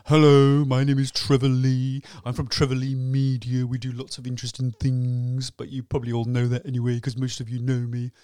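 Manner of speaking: loud opening hello, then a smug, droning pitch; mock networking intro, opened with a loud hello; boring self-centred pitch. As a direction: parody the dull self-introduction everyone gives. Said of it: "for goodness sake, start going".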